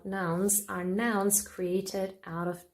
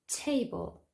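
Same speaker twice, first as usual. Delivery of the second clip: TA-ble, first syllable punched; stress on first syllable; 4 semitones higher than usual. Shown as a demonstration. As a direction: say table with weight on TA. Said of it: "the stress is on the first syllable".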